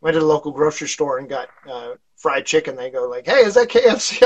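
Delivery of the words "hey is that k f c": a higher, teasing Arkansas-free question; mock surprised question. Firefighters asking if the fried chicken is KFC, mock surprised and higher. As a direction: toss it up like a suspicious buddy. Crew asks about the chicken.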